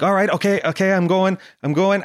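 mock-panicked scrambling to obey; flustered panic. Passenger told to get out of her car, flustered. His panicked reply under time pressure.

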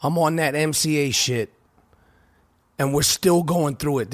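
hoarse voice through a nose strip; wearing a nasal strip. Real, not acted. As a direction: speak with nose strip and raspy throat. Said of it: "I got my nose strip on".

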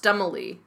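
"Stumley" said with stress on the first syllable; pronunciation demo. Shown as a demonstration. Co-host tries out her last name, a pronunciation demo. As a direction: say "Stumley" stressed up front, ending in -lee. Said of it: "her last name is pronounced".

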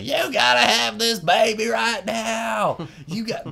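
put-on high, slow shrieking old woman; shrieking Moolah. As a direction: shriek it hysterically at her. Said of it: "just shrieking hysterically".

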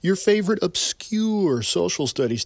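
grand showman welcome; big ringmaster opening; announcer intro. Acted.

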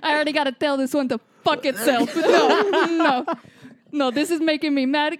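put-on Boston accent. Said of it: "In a Boston accent now".

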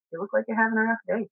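quiet, calm and unhurried. Retold or imitated. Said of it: "I said it very calmly and very quietly".

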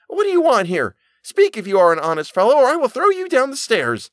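very high, loud threatening shout. A narrator's reading. Boy shouts threats at the ghost on the stairs. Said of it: "The boy shouted a second time".

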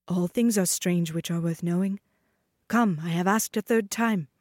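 lightly voiced, coaxing insistence; dancing master. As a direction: press her gently a third time.

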